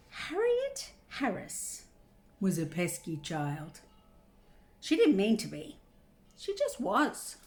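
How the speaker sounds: picture-book reading with big pitch swings; reading to children. Acted. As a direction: draw out the key words for young listeners. Reads picture book aloud.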